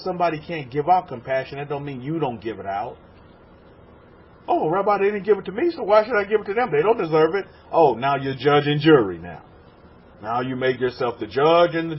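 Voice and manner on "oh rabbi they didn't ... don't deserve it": higher, quick mock protest; imitated indignant objection, pitched up and hurried; protesting congregant. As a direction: mimic a complaining follower making excuses. Preacher mimics congregant's objection.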